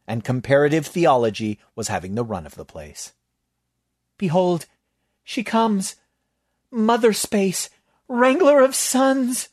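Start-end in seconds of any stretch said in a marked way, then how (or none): 4.2-9.5 high, loud and slow, swelling; ritual invocation. Acted. Bailey invoking Mother Space over the cultists, high, loud and slow. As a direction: proclaim the goddess's arrival. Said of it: "Bailey moaned".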